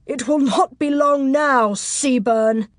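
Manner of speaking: menacing shouted gloat; threatening taunt. Acted. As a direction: taunt a foe from below, loud and high. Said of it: "obscene laughter threatening in his voice".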